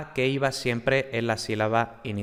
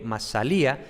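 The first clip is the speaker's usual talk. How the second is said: "masalía" stressed on the í. Shown as a demonstration. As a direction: lean on -lía at the end of "masalía". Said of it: "el acento está en la I".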